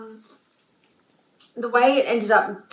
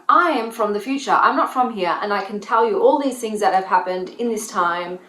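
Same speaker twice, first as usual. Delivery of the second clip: insistent; 5 dB louder than usual. Acted. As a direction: insist as if you had grabbed someone. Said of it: "grab the person and be like".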